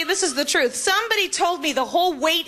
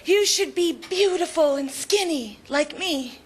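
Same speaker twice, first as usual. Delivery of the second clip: Barbie doll voice. Retold or imitated. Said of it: "She used to say".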